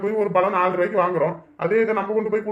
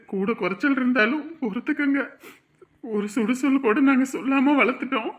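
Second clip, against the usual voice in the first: higher, tearful parent's plea; 4 semitones higher than usual. Acted. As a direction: plead for your daughter, voice close to crying. Parent entrusting married daughter to son-in-law. (அழுகை கலந்த வேண்டுகோள்)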